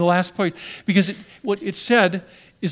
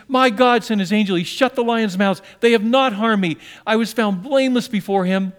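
louder, higher, steady declaration; Daniel's reply; 3 semitones higher, 5 dB louder than usual. Acted. Daniel answering the king from the den, proud declaration. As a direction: declare your innocence proudly.

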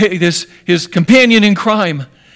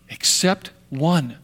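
slow soft repeat; 3 semitones lower, 6 dB quieter, slower than usual. Real, not acted.

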